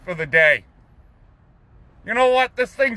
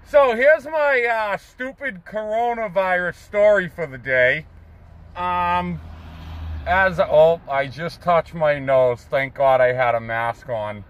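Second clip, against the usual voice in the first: muffled behind a face mask; through a face mask; 2 semitones lower than usual. Real, not acted. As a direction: speak through the cloth of a mask. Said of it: "as I talk through a mask".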